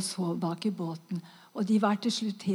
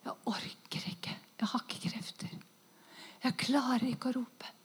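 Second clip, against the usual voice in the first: faint, much softer whisper with no strength left; exhausted whisper; 7 dB quieter than usual. Retold or imitated. Dying woman answering the inner voice, faint whisper. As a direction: barely get the words out. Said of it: "jeg svarte".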